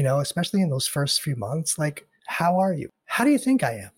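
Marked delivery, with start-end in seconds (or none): 2.3-3.9 a sour, imitated what-do-you-think; exasperated mock retort. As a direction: pitch climbing higher into a sarcastic comeback. Mocking the question people ask.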